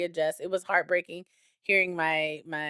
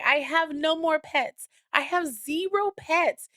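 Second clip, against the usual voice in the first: mock wail in a much higher pitch; imitated crying child; 10 semitones higher than usual. Daughter mourning her pet to mom, imitated tearful whine. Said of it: "she was just crying and crying".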